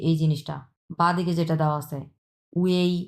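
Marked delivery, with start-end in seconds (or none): 2.5-2.9 "ওয়েই" as a glide from u through e to i; teacher's careful model of "ওয়েই"; pronounced as uei. Shown as a demonstration. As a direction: say "ওয়েই" with the middle e sounded. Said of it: "এটার উচ্চারণ হবে এটা".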